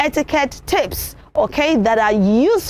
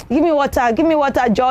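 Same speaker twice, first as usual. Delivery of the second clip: rude demand; faster than usual. Shown as a demonstration. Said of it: "Don't just say to people".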